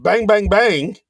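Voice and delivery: playful shooting noises; imitated gunfire. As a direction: punch out each shot. Imitating shotgun fire at ceiling.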